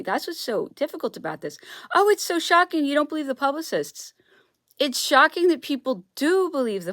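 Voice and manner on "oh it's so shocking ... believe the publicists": high, loud sarcastic mimicry; mock quote. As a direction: sneer it like a naive fan. Mocking people who trust publicists.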